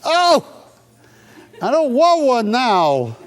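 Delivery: high, slow, laughing no thanks; laughing refusal. Real, not acted. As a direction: back off from it, laughing. Hears hog intestines.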